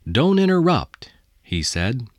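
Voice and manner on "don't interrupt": high, loud, stern cut-off; sharp rebuke. A narrator's reading. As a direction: snap it to silence him. Boss cuts off nervous employee.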